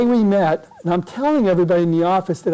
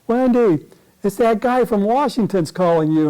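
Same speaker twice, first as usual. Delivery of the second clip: mock yell, higher-pitched call; retold yell; 4 semitones higher than usual. Brother calls Wendy to the phone, mock yell. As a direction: call out to someone elsewhere in the house. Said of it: "and the guy yells".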